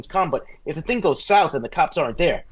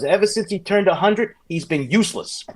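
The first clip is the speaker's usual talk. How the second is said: mild mock yell, raised pitch; higher, exasperated complaint, lightly acted; retold yelling; 6 semitones higher than usual. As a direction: imitate an old wife complaining about her husband. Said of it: "and she's still yelling".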